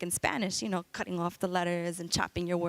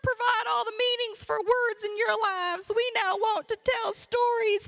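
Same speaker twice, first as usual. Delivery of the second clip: high, strained character voice; dictionaries in crisis; 13 semitones higher than usual. Acted. Dictionaries announcing an identity crisis, high put-on voice. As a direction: plead in a high voice, stretching the end.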